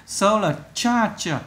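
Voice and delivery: "solar charger" with stress on CHAR; third-syllable stress. Shown as a demonstration. Teacher explaining two-word stress to pupils, third-syllable stress. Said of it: "thì nhấn âm số ba".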